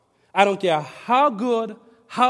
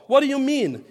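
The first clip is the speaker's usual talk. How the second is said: raised, louder surprised question; exclaimed; 5 semitones higher, 4 dB louder than usual. Retold or imitated. Pastor voicing Nicodemus, surprised exclamation. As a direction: Nicodemus blurting out his confusion. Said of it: "exclaimed Nicodemus".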